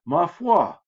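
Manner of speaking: "Ma foi" exclaimed high and loud; surprised exclamation. Shown as a demonstration. Teacher demonstrating the exclamation of surprise, startled. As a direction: gasp it out like sudden surprise. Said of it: "kind of an exclamation of surprise".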